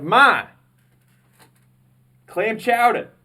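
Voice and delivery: loud, high insistence at mom; exasperated shout. Retold or imitated. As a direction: yell it at her, fed up. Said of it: "And I'm like".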